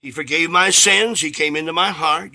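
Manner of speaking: composed, understated answer; calm testimony. Retold or imitated. Convert telling the minister what the Lord did, calmly. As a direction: state it simply and calmly. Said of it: "very calmly".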